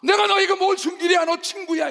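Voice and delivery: voice of God. Retold or imitated. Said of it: "이러잖아".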